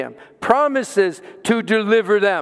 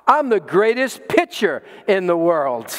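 usual speaking voice

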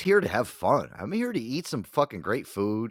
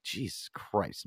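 slow, softer weary oath; exasperated; 7 dB quieter, much slower than usual. Retold or imitated. Telling off a Cowboys-fan brother, slow exasperation. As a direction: draw it out in mild exasperation.

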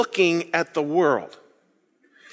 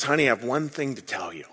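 smiling husband; 6 semitones lower, 6 dB quieter than usual. Retold or imitated. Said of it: "with a smile on his face".

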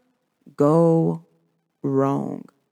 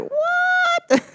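high-pitched squealed exclamation, drawn out; amazed reaction. Acted. Acting out listeners' joy once things start flowing, high amazed squeal. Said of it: "you be like".

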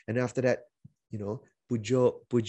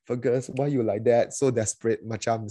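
pushy Malaysian pastor. Retold or imitated. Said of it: "some of the way I invited people".

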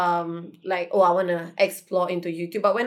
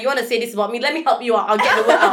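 louder, laughing mock offer; mock helpful; 5 dB louder, much faster than usual. Answering rumor-starters with laughing mock helpfulness. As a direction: sarcastically offer to help spread it. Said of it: "I'll be like".

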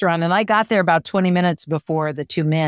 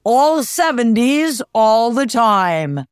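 higher, slow, swooshing station jingle imitation; radio sweeper jingle; 4 semitones higher, slower than usual. Imitating the station's new jingle on the car radio, hammed-up and slow. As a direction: sell it like a hammed-up radio promo. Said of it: "I hear this sweeper".

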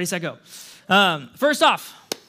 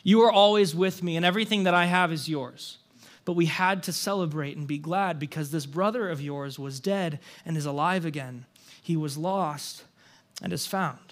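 gentle father; 3 semitones lower than usual. Acted. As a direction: gently reassure an upset son, settling into a hush. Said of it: "I imagine that he says that really gently".

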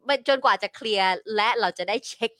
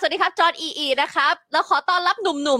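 higher, bright emcee greeting; mock host welcome; 6 semitones higher than usual. Guest imitating the host's welcome, a mock emcee voice. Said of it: "นางก็จะซัพพอร์ตเตอร์ส".

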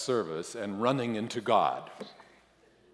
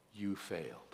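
kind but blunt; 10 dB quieter than usual. A narrator's reading. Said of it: "kindly on my shoulder".

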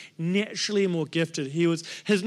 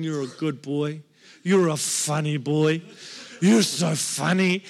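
imitating laughing friend; 4 semitones lower than usual. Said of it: "just laughing at me".

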